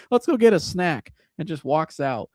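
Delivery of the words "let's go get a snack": Rex Ryan impression.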